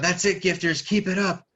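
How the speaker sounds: rally the troops with a loud, high voice; hammed-up battle boast; Sasaki. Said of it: "But Sasaki yells out".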